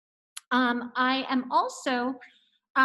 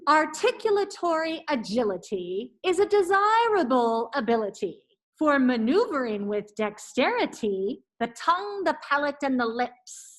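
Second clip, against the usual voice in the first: careful articulation. Shown as a demonstration. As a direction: enunciate every syllable clearly. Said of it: "let me do it once".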